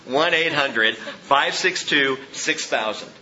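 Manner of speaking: "one eight hundred five six two six thousand" read slowly, digit by digit; slow and clear. Shown as a demonstration. Pastor repeating the phone number for the church, slow. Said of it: "Again, that phone number".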